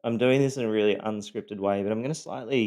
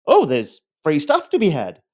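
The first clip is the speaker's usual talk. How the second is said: greedy delight; 6 semitones higher, 8 dB louder than usual. Retold or imitated. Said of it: "the ex-wife is like".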